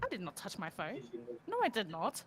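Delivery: very soft, under-the-breath protest; hushed denial. Real, not acted. Co-host denying she touched her phone, hushed. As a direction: deny it quietly, dropping to near whisper.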